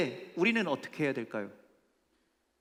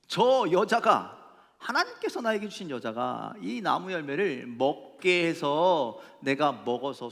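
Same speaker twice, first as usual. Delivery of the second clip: vorgespieltes Abwälzen der Schuld; 6 dB louder, slower than usual. Acted. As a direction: play Adam pinning it on the woman. Acts out Adam blaming the woman.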